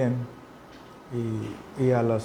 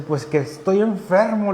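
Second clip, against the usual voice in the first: higher, slow, irritated insistence; mock-annoyed sick man, drawn out; a touch of anger as he repeats he's sick; annoyed retort; 6 semitones higher, slower than usual. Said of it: "se enoja".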